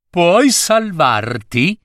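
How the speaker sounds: a hint of the odd old wizard, slow. Wizard answering the frightened king, lightly voiced and slow.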